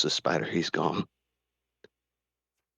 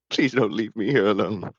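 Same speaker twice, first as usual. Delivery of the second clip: crying plea; 3 dB louder than usual. Acted. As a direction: plead not to be left, voice breaking. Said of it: "he starts to cry".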